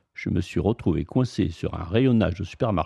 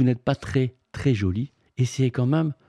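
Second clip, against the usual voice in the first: pleading prince; 5 semitones higher than usual. Acted. Frog prince pleading to young ladies.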